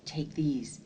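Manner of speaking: voiceless hurried whisper; urgent whisper. A narrator's reading. Pink hiding spectacles from pursuers, urgent whisper. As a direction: hand them over secretly, no voice.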